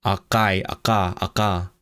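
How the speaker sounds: "akai, aka, aka" with a back k; sound demonstration. Shown as a demonstration. Streamer demonstrating a learned sound, "aka" with back k. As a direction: show the foreign k in "aka". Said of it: "I could say, like".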